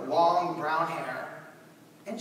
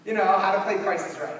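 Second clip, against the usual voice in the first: louder, laughing through it; laughing repeat; 3 semitones higher, 7 dB louder than usual. Retold or imitated. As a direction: laugh at how simple the search is. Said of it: "Not rocket science".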